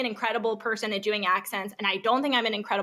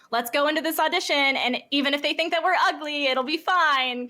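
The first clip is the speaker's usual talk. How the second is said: higher-pitched mock pep talk; self pep talk; 5 semitones higher than usual. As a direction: gee yourselves up before the audition. Acting out pep talk before audition.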